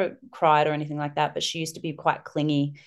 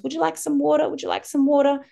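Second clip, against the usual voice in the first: put-on little girls offering water; 11 semitones higher, 3 dB louder than usual. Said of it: "the other ones".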